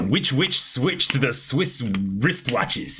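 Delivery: careful, slow tongue twister; deliberate tongue twister attempt. Shown as a demonstration. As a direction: spell it out slowly, word by word. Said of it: "So how about this?".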